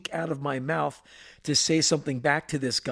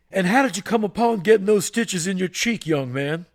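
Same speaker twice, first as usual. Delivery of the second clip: lightly voiced stern general; 3 semitones higher, 5 dB louder than usual. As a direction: boom it out like the school disciplinarian. General Price questions Jones.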